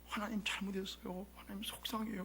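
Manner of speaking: soft, subdued confession to God; retold tearful prayer. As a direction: reenact a private weepy prayer, hushed. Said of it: "막 울었어, 혼자". (조용히 울먹이는 기도 흉내)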